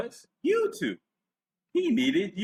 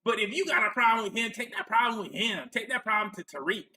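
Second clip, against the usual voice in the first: higher-pitched mock defensiveness; Antonio Moore; 5 semitones higher than usual. Host mimics Antonio Moore sending complaints to Tariq, light impersonation. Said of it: "I can't go full blown with this impersonation".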